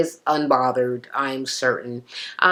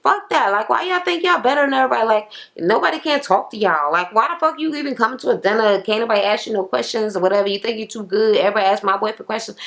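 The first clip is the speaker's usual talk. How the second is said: fast, higher-pitched retold tirade; mock indignant rant; 5 semitones higher, faster than usual. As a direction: rattle off her complaint, pitched up. Acting out Andrea's rant.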